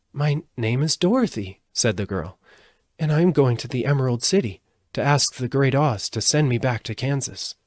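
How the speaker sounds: a hint of a hopeful child; lightly voiced young girl. Dorothy introduces herself.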